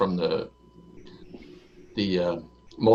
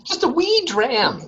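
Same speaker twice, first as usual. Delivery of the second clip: mock Scottish accent; slower than usual. Joking Scottish whisky cliché.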